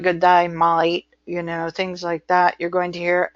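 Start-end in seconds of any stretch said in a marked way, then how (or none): 0.0-1.1 lightly imitated Australian greeting; broad Australian vowels on day and mate; Australian accent. Shown as a demonstration. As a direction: do a casual Australian impersonation. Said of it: "uniquely Australian".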